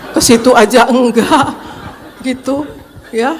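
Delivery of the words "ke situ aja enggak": retelling her own reply through a laugh; wife laughing at the accusation, half exasperated; laughing disbelief. Retold or imitated. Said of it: "Ya Tuhan".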